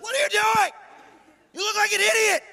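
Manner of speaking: high-pitched, scandalized shriek of a scolding; appalled wife. Acted. Wife seeing David dance, shrilly appalled. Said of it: "His wife sees it".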